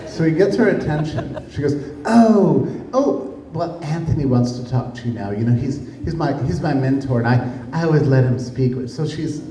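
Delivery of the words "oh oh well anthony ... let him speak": mock nervous prattle. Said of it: "she's like this nervous prattle".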